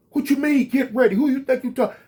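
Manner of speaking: guard snapping back, voice pitched well up; offended guard. Retold or imitated. Guard's angry retort voiced.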